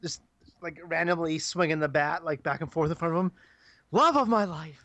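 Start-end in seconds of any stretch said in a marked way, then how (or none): 3.9-4.8 higher, playful film-villain quote; mock villain taunt. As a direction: call it out as a hammed-up madman.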